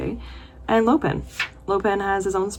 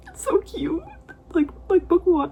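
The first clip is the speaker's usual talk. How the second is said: gushing; 12 semitones higher than usual. Real, not acted. Gushing over cute scene.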